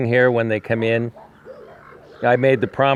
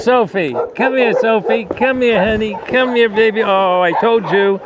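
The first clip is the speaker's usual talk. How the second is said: coaxing pet voice; 8 semitones higher than usual. Real, not acted. Coaxing the dog to come.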